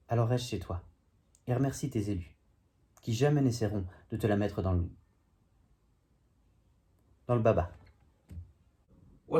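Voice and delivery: spoken-word poem in measured phrases; declaimed verse with lifted phrase ends; poem recitation. Acted. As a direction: recite a wry poem, line by line. Recites own comic poem.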